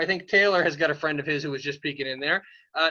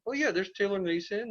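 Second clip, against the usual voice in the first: higher, lightly voiced puppet dog; Blaze the Fire Dog; 4 semitones higher than usual. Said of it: "This is Blaze the Fire Dog".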